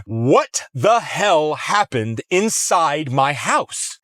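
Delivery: each word slow and pointed, barely polite; slow, pointed question. Retold or imitated. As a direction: drag it out with held-back anger. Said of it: "I really wasn't polite at all".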